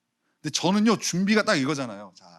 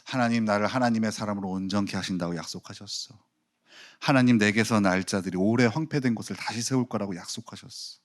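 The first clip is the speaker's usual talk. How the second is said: demo prayer; 4 semitones lower than usual. Shown as a demonstration. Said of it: "말씀을 피기 전에".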